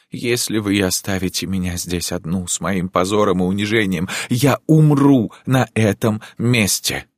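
anguished threat. Acted. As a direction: wring it out in despair. Countess threatening to die.

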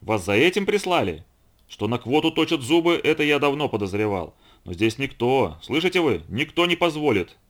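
acted wrath, pressing each point; angry accusation. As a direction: accuse with mounting indignation. Enraged man accuses Florence.

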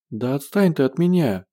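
mildly pleading to be left alone. Acted. Zhenya begs Gosh to leave her alone, mildly pleading. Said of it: "взмолилась Женя".

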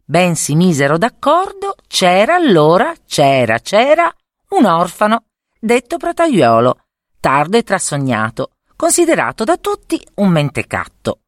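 lilting, rhythmic verse reading; sing-song rhyme. A narrator's reading. Narrator opening a fairy tale with a lilting rhyme. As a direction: read the rhyme with a bouncing lilt.

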